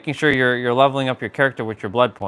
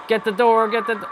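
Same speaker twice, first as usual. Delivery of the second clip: urgent high call; 8 semitones higher than usual. Real, not acted. Shouting instruction during chase.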